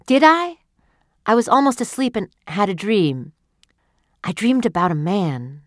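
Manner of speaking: lightly voiced wife, excited; eager young wife. Wife's voice in the story.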